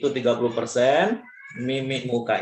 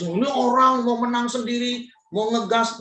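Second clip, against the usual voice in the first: judgmental inner voice; 8 semitones higher than usual. Retold or imitated. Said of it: "saya terus-terus".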